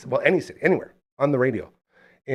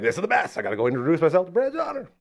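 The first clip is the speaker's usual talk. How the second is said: higher, giddy self-talk on spotting a star; retold excitement; 6 semitones higher than usual. Telling himself to meet his idol, excited. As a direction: pitch up in eager fan excitement. Retold thrill at seeing celebrity.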